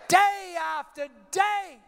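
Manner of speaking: big drawn-out storyteller's shout; dramatic emphasis. Retold or imitated. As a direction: stretch each word out loudly. Preacher stretching dramatic repetition.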